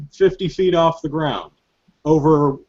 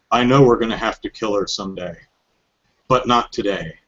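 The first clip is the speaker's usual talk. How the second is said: mildly hammed-up solemn vow; lightly mock-dramatic, pausing between phrases; played up for laughs; 2 semitones lower than usual. Second guy addressing Revolver Ocelot, lightly hammed-up gravity. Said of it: "I'm playing it up for laughs".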